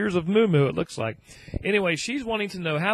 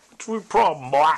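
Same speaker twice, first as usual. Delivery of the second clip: playful dog talk; 7 dB louder than usual. Real, not acted. Owner calls his dog over, playful mock scolding.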